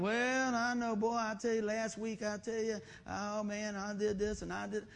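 stretched-out monotone moaning; hammed-up woeful droning; mock droning complaint. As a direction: imitate someone dwelling on old mistakes. Mimics dwelling on last week's failings.

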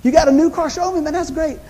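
high, eager congratulations; excited for a friend. Retold or imitated. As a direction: cheer him on about the new car. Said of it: "I'm like".

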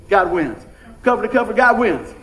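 loud emphatic proclamation; proclaiming. Acted. Preacher proclaiming to the congregation, loud. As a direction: ring it out to the church.

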